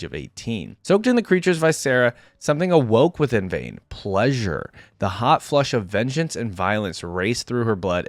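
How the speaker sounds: measured dramatic lore reading; story narration. A narrator's reading. Reader telling viewers of Vayne's training, story narration. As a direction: read it out like a fantasy tale. Reads champion lore aloud.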